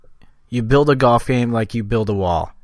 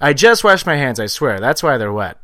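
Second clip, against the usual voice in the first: John Mulaney impression; 3 semitones higher, 4 dB louder than usual. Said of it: "how does he say it".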